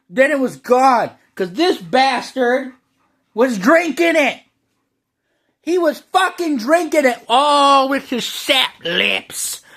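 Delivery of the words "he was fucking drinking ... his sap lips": hushed conspiratorial whisper. Acted. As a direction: lean in and breathe it like a secret. Whispered aside about the dog.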